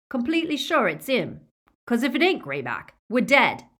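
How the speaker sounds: high and loud, anxious; nervous doubt. A narrator's reading. A Snatcher warns Greyback they could die, high anxious voice. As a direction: voice the fear of getting it wrong.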